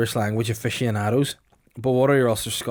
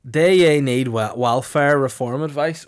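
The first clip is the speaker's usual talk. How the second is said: mock Ulster Scots reading, slow; 5 dB louder than usual. Shown as a demonstration. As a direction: read the leaflet in an Ulster Scots accent. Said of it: "which in English means".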